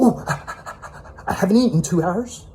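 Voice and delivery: high, breathy whimper of a fussy person; whiny mock. Mocking people who cannot cope, high whining parody. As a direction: parody someone helpless and hungry. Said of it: "You're not gonna go".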